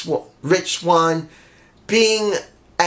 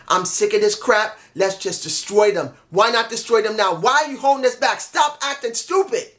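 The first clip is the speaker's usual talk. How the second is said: worked-up emotional quote; 3 semitones higher than usual. Retold or imitated. Retelling Santana urging his team to destroy their rivals, worked-up and exasperated. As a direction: imitate a fed-up outburst, pitch climbing toward the end. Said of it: "He showed a lot of emotion".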